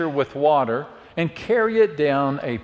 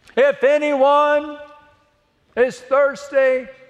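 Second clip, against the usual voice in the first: put-on, high, loud voice calling out; 10 semitones higher, 3 dB louder than usual. Speaker tells a church how he stood and called to a crowd, retelling a loud call. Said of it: "He said in a loud voice".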